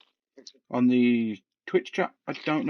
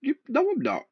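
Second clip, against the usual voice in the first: whisper; 11 semitones higher than usual. Real, not acted. Denies being posh.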